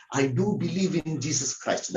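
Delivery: "do" lifted as in a declaration; emphatic DO, falling to the end; stress on DO. Shown as a demonstration. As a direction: lean on "do" to affirm belief. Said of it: "That is the people would say".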